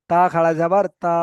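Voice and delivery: তা খাড়া জাবার তা with the last তা held long; elongated final TA. Shown as a demonstration. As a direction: spell it out, then stretch the closing তা. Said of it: "টান দিয়ে পড়তে হবে".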